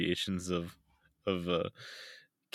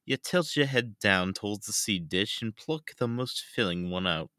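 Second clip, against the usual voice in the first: put-on British accent. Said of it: "Sure is an accent".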